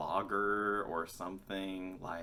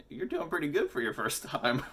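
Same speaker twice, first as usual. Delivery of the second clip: friendly praise; 8 semitones higher, 4 dB louder than usual. Retold or imitated. Friend praising first-timer.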